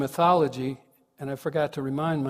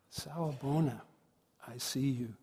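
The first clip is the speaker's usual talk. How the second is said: hushed, gentle greeting; sincere greeting; 9 dB quieter than usual. Real, not acted. Speaker greeting the congregation anyway, soft and sincere. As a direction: offer it softly, with pauses.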